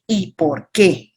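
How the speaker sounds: ¿Y por qué? dragged slowly, stretching qué; slow, deliberate ¿Y por qué?; slow drawn out question. Shown as a demonstration. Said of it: "El por qué".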